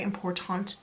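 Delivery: "important" with a fully sounded "-tant"; "important" with an open, over-careful last syllable; odd pronunciation of important. Real, not acted. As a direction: say "important" as im-por-TAHNT. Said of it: "why I said important like that".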